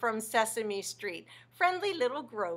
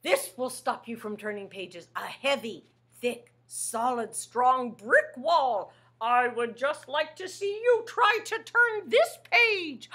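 a hint of a smug monster; defiant Grover; 5 dB louder than usual. Grover's wall challenge.

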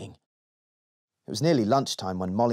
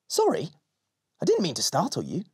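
shadow voice; 5 semitones higher than usual. Acted. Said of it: "said the shadow".

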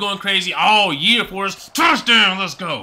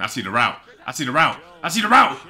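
building to a scream; 5 dB louder than usual. Real, not acted. Gamer reading the route, building from calm to a yell. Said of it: "I don't wanna be just screaming out here".

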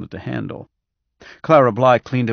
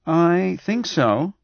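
higher, slow, considered answer; honest; 8 semitones higher, 3 dB louder, much slower than usual. A narrator's reading. Doctor answers patient after reflection, honest. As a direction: draw it out as a sincere answer. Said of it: "he said honestly".

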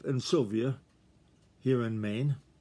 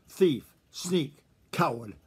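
snarled insults; slower than usual. Acted. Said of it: "snarled Reddy".

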